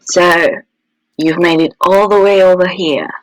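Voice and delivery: a light purr, unhurried. Acted. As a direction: purr it, inviting him closer. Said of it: "Purred the woman".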